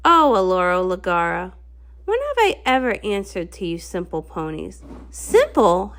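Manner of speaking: sorceress villain. Acted. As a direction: sneer at the simple ponies. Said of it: "a sorceress who lives in the forest".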